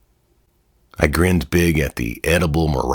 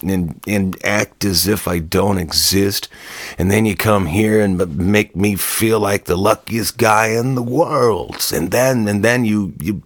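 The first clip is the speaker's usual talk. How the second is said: higher, rising exasperation, stumbling over words; drunken frustrated outburst; 5 semitones higher than usual. Acted. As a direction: pour out his hurt and confusion at her. Drunk man confronting Jana.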